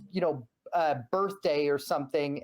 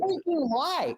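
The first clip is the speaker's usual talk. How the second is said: mock yelling; 10 semitones higher, slower than usual. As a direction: shout it in a hammed-up fit of outrage. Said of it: "a gif of Christian yelling".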